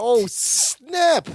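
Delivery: high, drawn-out reaction; playful amazement. Real, not acted. Co-host reacting to Larry quitting, playfully amazed. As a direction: stretch it out in playful shock.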